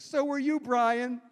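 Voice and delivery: high, sweet imitation of a famous singer. The singer greeting a starstruck fan, high imitation. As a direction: coo it back like a gracious star.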